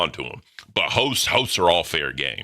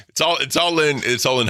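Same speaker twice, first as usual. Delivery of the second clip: laughing; 9 semitones higher, 3 dB louder than usual. Real, not acted. Laughing through words.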